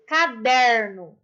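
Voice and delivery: CADERNO said slowly, weight on DER; stress on DER. Shown as a demonstration. Teacher showing pupils the tonic syllable, stress on DER in CADERNO. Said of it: "o der".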